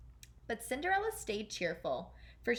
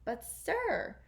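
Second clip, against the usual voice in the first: Grand Duke; 8 semitones higher than usual. Acted. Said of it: "said the Grand Duke".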